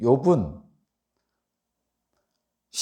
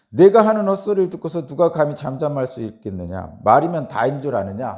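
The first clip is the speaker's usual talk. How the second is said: louder, indignant reading of a reproach; acted rebuke; 6 dB louder than usual. Preacher voicing Zophar scolding Job, loud mild indignation. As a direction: reprove sternly, pushing the volume. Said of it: "뭐라고 책망하냐면".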